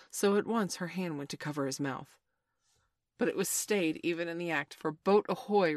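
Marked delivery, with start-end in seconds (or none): 4.9-5.8 moderately raised sea captain's call; slightly higher, louder seaman's call; ringing hail. A narrator's reading. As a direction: hail the boat from the water. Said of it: "rang over the lagoon in Hook's voice".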